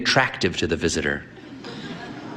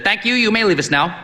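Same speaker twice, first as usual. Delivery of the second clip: put-on high, booming old priest; hearty old priest; 11 semitones higher than usual. A narrator's reading. Old priest sizing up the sick boy, hearty. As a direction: boom at the boy like a brisk priest.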